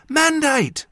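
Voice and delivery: very high, loud call; urgent female voice. A narrator's reading. Jas trying to wake an injured man, high and urgent. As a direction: cry the name out high. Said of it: "the voice said tearfully".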